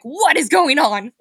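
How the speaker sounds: mock bewildered, drawn-out question; bewildered outcry. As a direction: stretch it out in baffled disbelief. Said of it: "I'm like".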